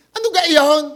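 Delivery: a laughing, loud Batangas "Ano ga iyon?"; Batangas accent. Retold or imitated. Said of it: "sa atin sa Batangas".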